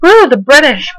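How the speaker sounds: imitated cheer with a lifted woo; mock crowd cheer. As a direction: lightly play a whooping crowd. Everyone cheers in retold story.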